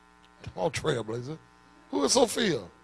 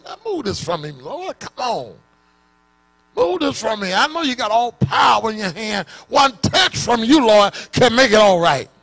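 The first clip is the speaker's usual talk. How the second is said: Paul pleading; 3 semitones higher, 4 dB louder than usual. Acted.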